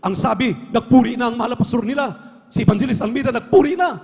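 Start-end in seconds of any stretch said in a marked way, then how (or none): 3.3-4.0 higher, rushed devil ordering his demons; panicked Satan. Retold or imitated. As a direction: hurry the demons back, a touch frantic. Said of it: "nung marinig ni Satanas". (natatarantang Satanas)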